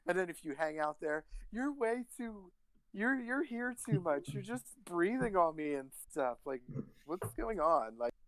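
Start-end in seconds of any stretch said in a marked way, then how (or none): 1.5-8.0 put-on a man doing a fed-up girlfriend, pitched up; girl voice. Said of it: "your girl, uh, voice is also your gay guy vo".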